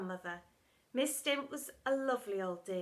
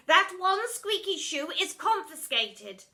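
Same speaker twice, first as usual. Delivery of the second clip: loud, slow pronouncement; stern teacher; 7 semitones higher, 8 dB louder, slower than usual. Acted. Miss Seeth confiscating pupil's shoe, stern. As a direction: pronounce it like a verdict.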